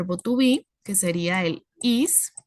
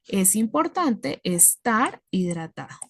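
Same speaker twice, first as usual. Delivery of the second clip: slow, deliberate model sentence; traducción natural; slower than usual. Shown as a demonstration. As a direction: spell out the corrected phrase slowly. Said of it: "le voy dando el sentido". (frase modelo, lenta y pausada)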